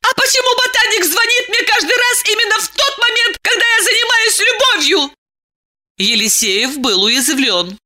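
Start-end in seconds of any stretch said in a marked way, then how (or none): 0.0-5.1 high, fast, tearful yelling; hysterical cry. A narrator's reading. Diana screams at Eliseev, high and tearful. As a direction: fire it off hysterically.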